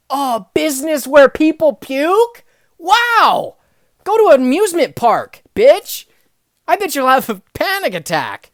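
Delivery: retold shouting match, full force; angry yell. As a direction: yell it at her like she insulted you. Retold angry comeback to customer.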